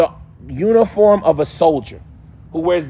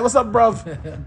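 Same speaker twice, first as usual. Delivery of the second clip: slow, slightly higher London "bruv" greeting; London slang greeting; 5 semitones higher, slower than usual. Retold or imitated. Mimicking London friends with a slow London "What's up, bruv?". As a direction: lightly put on a London street accent. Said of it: "you can't help but be like".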